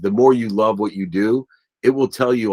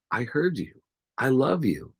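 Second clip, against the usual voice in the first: soft, higher-pitched gentle reassurance; retold motherly love; 5 semitones higher, 6 dB quieter than usual. Mom comforts son who lost her house, tender retelling. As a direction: answer tenderly and quietly, as the mother.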